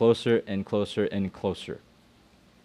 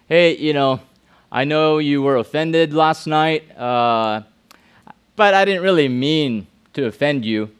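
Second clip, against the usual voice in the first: excuse-making apology; 3 dB louder than usual. Retold or imitated. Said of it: "don't say".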